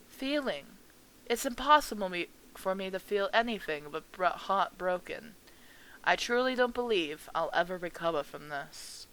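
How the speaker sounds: lightly voiced grieving mother, a touch of heartbreak; softly broken old woman; old lady. Mother telling the stranger she can't recover, understated grief.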